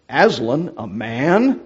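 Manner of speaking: firm, stern beaver voice; a stern Mister Beaver. Acted. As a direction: say it sternly, no smile. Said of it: "said Mister Beaver sternly".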